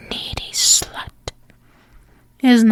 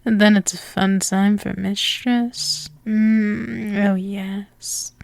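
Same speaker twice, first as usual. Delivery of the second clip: sultry domme ASMR. Acted. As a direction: lull the listener into obeying. Hypnotic domme roleplay.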